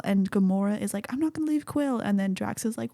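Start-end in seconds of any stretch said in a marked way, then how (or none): 1.1-2.0 higher, lightly acted refusal; mock distress. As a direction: imitate someone refusing to abandon a friend. Retells Gamora refusing to leave.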